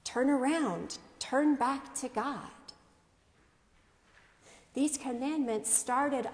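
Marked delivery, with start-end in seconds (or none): 0.0-2.5 raised pitch, held-back volume; understated imitation of a temple shout; restrained retold shout. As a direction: call it out firmly without yelling. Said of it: "Jesus shouts in the temple".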